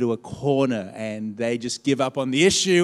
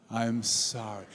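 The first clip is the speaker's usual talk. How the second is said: more sincerely; 4 semitones lower, 6 dB quieter, slower than usual. Shown as a demonstration. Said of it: "a little bit more sincerely".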